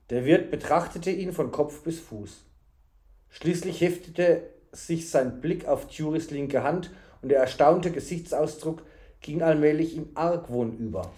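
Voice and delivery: measured storybook reading; story narration. A narrator's reading. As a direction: narrate the tale evenly.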